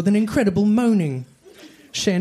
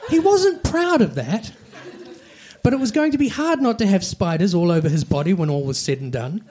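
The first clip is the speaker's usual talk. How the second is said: laughing. Real, not acted. Reader cracking up mid-sentence.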